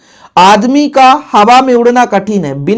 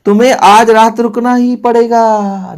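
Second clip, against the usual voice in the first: slow, emphatic with ही pressed; slow, heavy emphasis on ही; stress on ही; 3 semitones higher, slower than usual. Shown as a demonstration. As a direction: insist hard on staying tonight. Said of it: "बहुत ज्यादा जोर दिया जा रहा है".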